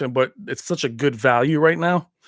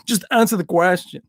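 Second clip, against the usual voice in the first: put-on lightly accented action-star demand; mock tough-guy line with foreign vowels; Van Damme impression. Repeating the catchphrase to viewers, light Van Damme impression. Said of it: "I'll do it in Van Damme's voice".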